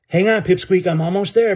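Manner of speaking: yelling over the chaos; yelled. Acted. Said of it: "Benny yelled over the chaos".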